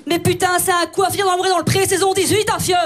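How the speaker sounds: hammed-up Belgian accent outburst. Mocking how Bérangère sounds in Belgium, Belgian accent. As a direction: rant in a thick mock Belgian accent. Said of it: "Bérangère en Belgique, c'est prononcé comment?".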